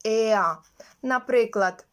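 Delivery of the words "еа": «еа» as eh gliding into ah; AIR sound demonstration. Shown as a demonstration. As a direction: model «еа» as one glide, no r. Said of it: "R читається як". (показова вимова «еа»)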